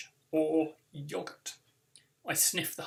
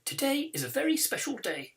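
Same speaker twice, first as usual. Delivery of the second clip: higher, louder headteacher address to the hall; teacher announcing; 9 semitones higher, 5 dB louder than usual. Acted. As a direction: announce it to the whole assembly. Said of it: "she announces".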